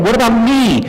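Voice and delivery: heated, high-pitched demand for attention; indignant clamour. Acted. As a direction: cry it out as the whole squabbling group. Acting out everyone's clamouring complaint.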